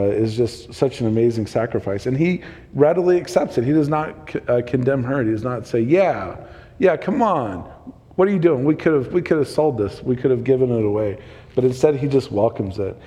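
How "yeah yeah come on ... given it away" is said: mock exasperation. Imagined Jesus scolding the woman.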